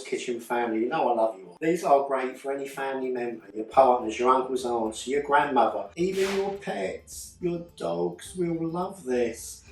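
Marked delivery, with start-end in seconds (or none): 6.0-9.6 pet voice. Pretend. Silly pet voice in ad.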